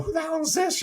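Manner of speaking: high squeaky disbelief, imitating Charles; mock shock.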